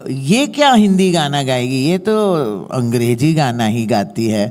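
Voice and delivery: quick, mildly mocking Hindi quote; imitating dismissive critics. Singer quoting critics who doubted her Hindi, dismissive. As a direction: rattle it off as a sniffy critic. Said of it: "they don't say it like that".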